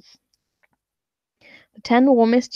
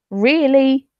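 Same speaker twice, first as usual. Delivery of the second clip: mock-disbelieving really, pitched up; incredulous; 4 semitones higher, 4 dB louder than usual. Real, not acted. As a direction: scoff at the idea. Incredulous rhetorical question.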